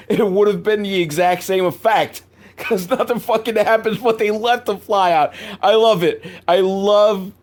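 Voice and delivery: tag. Real, not acted. Delighted rant over bad editing.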